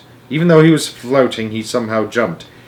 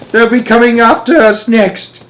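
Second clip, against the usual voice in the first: high, loud panicked yell; grandma's yell; 11 semitones higher, 6 dB louder than usual. A narrator's reading. Second grandma fearing the Knids, yelling. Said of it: "yelled Grandma Georgina".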